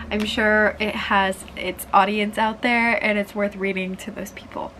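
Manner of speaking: stuffy nose; talking through a blocked nose; congested. Real, not acted. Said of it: "I'm a little bit congested right now".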